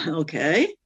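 cocky okay with a questioning lift; retold cocky. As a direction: humour the caller, unconvinced. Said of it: "I was really cocky".

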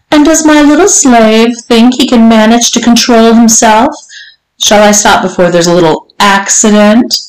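lightly voiced mistress, high at the start; teasing mistress. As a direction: toy with him in mock concern.

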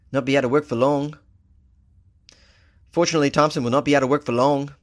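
put-on botched accent drifting toward a famous band's; accidental Liverpool band accent. Host reading the article, accent slipping into a Liverpool band's one. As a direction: slip into a faint Liverpool accent. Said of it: "Why do I sound like the Beatles?".

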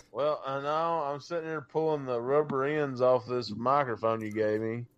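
ordinary delivery

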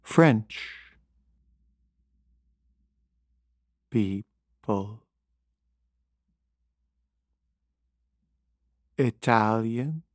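very slow, drawn-out words with long gaps; slow Thich Nhat Hanh. Retold or imitated. Comedian imitates the monk's talk, very slow. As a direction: imitate the monk, stretching each word. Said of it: "he talked like this".

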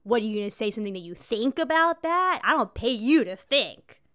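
loud, barking boss; barking tyrant boss. Retold or imitated. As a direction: bark it like a bossy manager. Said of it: "who would always be like".

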